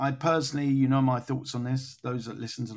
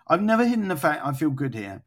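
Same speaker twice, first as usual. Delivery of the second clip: lightly attempted French accent, a little higher; 4 semitones higher, 4 dB louder than usual. Reading out a footballer's quote, a hint of French accent. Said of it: "in a French accent".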